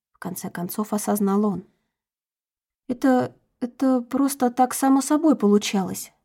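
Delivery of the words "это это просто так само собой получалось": stammering. Acted. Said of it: "заикаясь".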